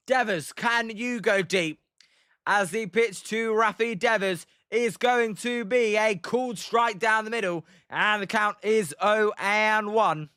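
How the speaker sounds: measured live baseball call; play-by-play. Acted. Commentator calling the pitch to Rafi Devers, play-by-play. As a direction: announce pitch and count to the audience.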